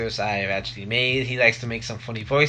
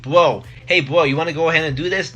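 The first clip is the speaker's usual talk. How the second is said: Guido bro voice; 3 semitones higher, 5 dB louder than usual. Retold or imitated. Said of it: "He's like".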